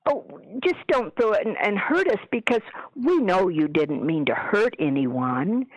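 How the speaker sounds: lilting, teasing sing-song to a ghost; silly sing-song. Retold or imitated. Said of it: "in kind of a sing-songy thing".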